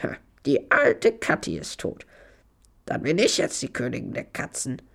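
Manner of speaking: talking cat with a breathy edge; catty voice. A narrator's reading. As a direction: feline voice sinking to a hushed close. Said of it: "mit einer katzigen Stimme gesagt".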